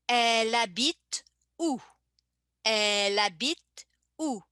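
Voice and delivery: "elle habite" as "e-labite", H silent; linked elle habite. Shown as a demonstration. Teacher modelling the linked "elle habite où" for learners. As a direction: roll the L into "habite". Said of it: "same thing in the pronunciation, I connect".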